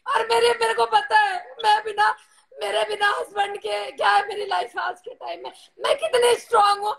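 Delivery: real tearful voice, pressing on through the hurt; on the edge of crying, insisting on her strength; tearful distress. Real, not acted. Tearful widow speaking of her loss.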